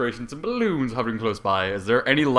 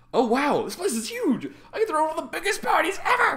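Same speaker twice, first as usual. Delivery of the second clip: very high, bright, lively, energetic voice, rising pitch. Reading a fic aloud, voicing Bubbleberry: energetic Bubbleberry voice. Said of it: "my normal voice, but more of an energetic tone".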